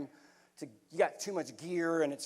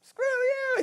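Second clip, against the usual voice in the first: retold yell; 6 dB louder than usual. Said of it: "the last thing Norton heard me say was".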